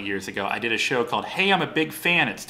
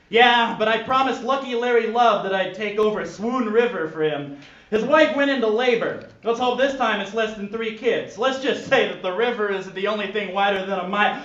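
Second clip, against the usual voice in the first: Bulldog voice; 9 semitones higher than usual. Acted.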